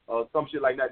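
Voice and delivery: ordinary talk, nothing marked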